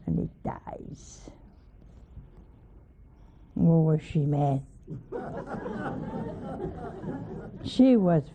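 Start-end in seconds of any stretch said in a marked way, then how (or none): 4.9-7.6 airy falling laugh, high start; amused unvoiced giggle; breathy high laugh. Real, not acted. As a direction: laugh almost silently. Laughs at wife's anger.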